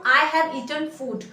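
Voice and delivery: very slow, word by word for the class; slow teacher dictation. Shown as a demonstration. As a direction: spell it out slowly so students can follow. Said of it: "that means मैं बोल रही हूँ".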